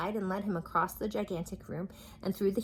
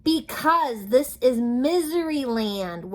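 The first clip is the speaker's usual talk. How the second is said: higher, loud, slow weepy voice; weeping; 6 semitones higher, 9 dB louder, slower than usual. Acted. King weeping as he explains Misery Land. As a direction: weep the words out. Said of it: "wept the king".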